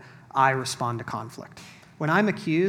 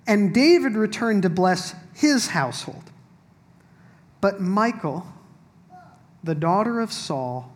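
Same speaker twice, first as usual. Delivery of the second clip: measured Bible reading voice, a little higher and louder; scripture reading; 4 semitones higher, 5 dB louder than usual. Acted. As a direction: proclaim the passage to the room. Reads verse twenty aloud.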